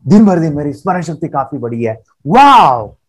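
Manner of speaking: delighted, believing every word; the right way, full of feeling; joyful affirmation. Shown as a demonstration. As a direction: say it with real joy. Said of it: "ऐसे बोलना".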